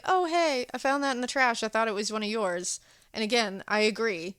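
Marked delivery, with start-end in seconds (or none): 0.0-2.8 put-on sweet old housekeeper. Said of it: "his housekeeper's like".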